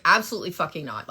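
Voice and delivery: mock cussing. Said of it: "I started cussing at her".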